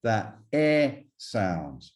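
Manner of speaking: "E" as a long, open eh; long è sound. Shown as a demonstration. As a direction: draw "E" out slowly as an open French è. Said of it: "this is that long E sound".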